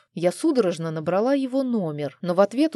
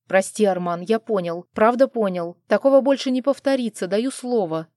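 rushed, pleading and louder; whining plea; 3 semitones higher, 5 dB louder than usual. Acted. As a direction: grovel fast to save your skin. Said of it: "запричитал придурок". (испуганно причитая, быстро)

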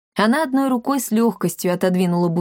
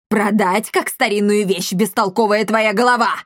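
barked scolding. Acted. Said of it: "гаркнула комендантша".

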